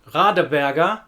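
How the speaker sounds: "Radeberger" ending in an open "ah", no R. Shown as a demonstration. Teacher contrasting word endings, open -er. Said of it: "The difference is between".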